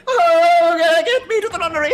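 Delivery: theatrical Shakespearean voice. Acted.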